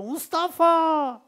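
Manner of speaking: long, high shout of "Mustafa!" from behind; shouted "Mustafa!" to someone walking away; calling out. Retold or imitated. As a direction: call the name across a crowd, drawn out and slow. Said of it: "Birisi arkadan bağırıyor".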